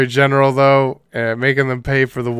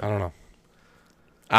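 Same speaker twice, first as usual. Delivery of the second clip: slow drawn-out shrug; 3 semitones lower, 5 dB quieter, much slower than usual. Real, not acted.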